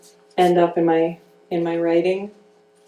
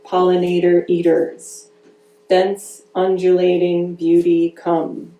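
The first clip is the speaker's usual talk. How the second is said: measured, deliberate poem recital; poetry reading. Acted. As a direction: give each image its own weight, reading to an audience. Reads her own poem aloud.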